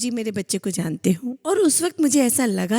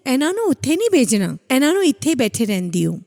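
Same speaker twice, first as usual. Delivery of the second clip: retold loud call; 3 semitones higher than usual. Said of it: "बोलते जोर से".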